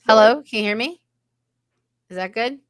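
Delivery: glitching, garbled mic audio; distorted voice. Real, not acted. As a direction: voice breaking up over the call. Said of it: "your voice is distorted in a way".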